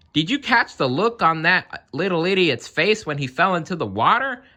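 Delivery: put-on high, giggling drunk clown; giggly clown. A narrator's reading. Drunk clown gloating to his friends, giggling. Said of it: "collapsing in a fit of giggles".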